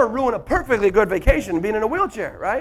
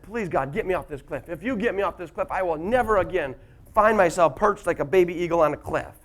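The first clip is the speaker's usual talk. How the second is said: retold prayer; 2 semitones lower than usual. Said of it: "I prayed to God like I'd never prayed before".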